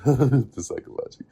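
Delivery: laughing through a restarted phrase; laughing at a slip. Real, not acted. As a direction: chuckle as you retake the words. Laughs at own flub, retakes.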